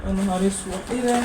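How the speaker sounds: sudden dismayed gasp of words; real shock at the lights going out; startled outburst. Real, not acted.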